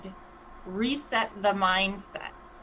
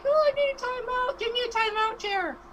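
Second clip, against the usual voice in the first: put-on high, pleading little kid voice; whiny child voice; 4 dB louder than usual. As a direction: beg like a tired toddler. Begging for a break, childlike.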